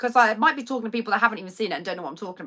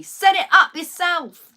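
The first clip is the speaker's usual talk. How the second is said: higher, louder, slow exasperated snap; exasperated retort; 8 semitones higher, 8 dB louder, slower than usual. Real, not acted. Vlogger scolding her absent dad about the Alexa, exasperated. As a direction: tell him off in disbelief.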